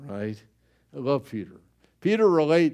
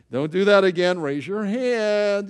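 mock teacher scold; 5 semitones higher, 5 dB louder than usual.

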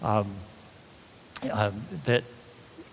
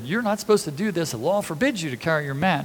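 quick, lightly mimicked scolding; mildly worked up; 2 semitones higher, faster than usual. Officials rebuking the man carrying his mat, mildly worked up. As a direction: recite the rule with a touch of indignation. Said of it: "they're all worked up about the mat".

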